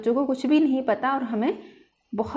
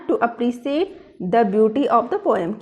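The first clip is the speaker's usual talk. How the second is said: slow dictation; much slower than usual. Shown as a demonstration. Dictating next aim.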